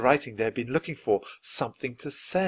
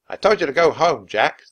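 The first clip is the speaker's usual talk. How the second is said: stern captain; 5 semitones higher, 8 dB louder than usual. A narrator's reading. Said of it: "the captain said sternly".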